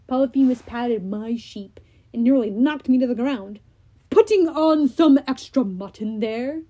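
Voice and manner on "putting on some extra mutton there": Cyclops voice. Acted. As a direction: drag the name out like a brutish giant.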